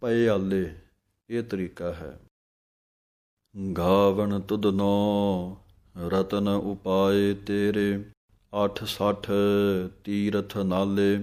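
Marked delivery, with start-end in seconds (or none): 0.0-0.6 "ਪਏ ਆਲੇ" with a break after ਪਏ; "ਪਏ ਆਲੇ" with ਪ set apart, not pyaale; split syllables. Shown as a demonstration. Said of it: "ਪੱਪੇ ਨੂੰ ਥੋੜ੍ਹਾ ਜਿਹਾ ਸੰਬੰਧਕ ਕਰਕੇ ਬੋਲੋ". 3.8-11.2 slow, clear scripture reading with pauses; measured devotional santhya; slow Gurbani recitation. Shown as a demonstration. Teacher recites verse slowly.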